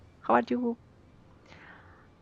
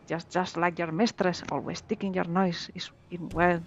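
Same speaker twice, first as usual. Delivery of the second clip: lightly voiced pirate accent, gruff; mild pirate accent taunting; 2 semitones lower than usual. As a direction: read it like a sea pirate, a hint only. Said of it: "Love that pirate accent".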